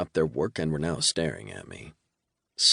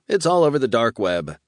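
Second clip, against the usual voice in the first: demon voice; 6 semitones higher, 6 dB louder than usual. A narrator's reading. Demon Yali.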